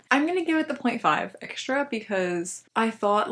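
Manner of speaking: lisping with a retainer in; slight lisp from a retainer; wearing a retainer. Real, not acted. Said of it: "you're gonna get, like, Lisp Emily right now".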